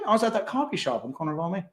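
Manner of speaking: mock storyteller. Voicing the storyteller replying.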